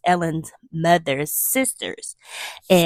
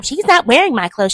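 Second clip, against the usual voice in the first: high-pitched bratty imitation; nasty refusal; 7 semitones higher, 4 dB louder than usual. Cousin refuses to lend Ellen clothes, high and nasty. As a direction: refuse outright, mock-snotty. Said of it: "the cousin was so nasty".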